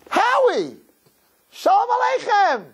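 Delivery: high-pitched, hearty retold hail; calling out. Rabbi hails Howie across the dance.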